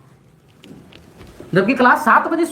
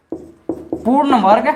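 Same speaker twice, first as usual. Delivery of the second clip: पूर्ण वर्ग drawn out very slowly, rising at the end; slow dictation; much slower than usual. Real, not acted. Teacher dictating a maths question to students, पूर्ण वर्ग slowly stretched. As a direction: stretch पूर्ण वर्ग out for note-takers, ending on a rise.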